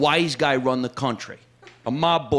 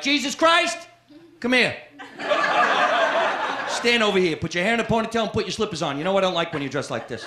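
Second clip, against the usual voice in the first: mother scolding Jesus; 3 semitones higher than usual. Retold or imitated. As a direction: bark at him like a fussing mother. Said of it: "My mother would have been like".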